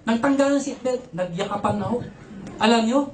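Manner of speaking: ordinary talk, nothing marked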